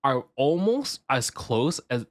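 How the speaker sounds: high, eager fangirl gush; cutesy excited voice. Pretend. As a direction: gush about stars like an eager kid. High excited cute voice to chat.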